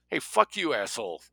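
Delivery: sharp high yell, fired off in protest; angry shout. Acted. Greta to Jake as he pushes her head down, angry shout. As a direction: shout it out as your head gets shoved down. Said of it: "Greta shouted".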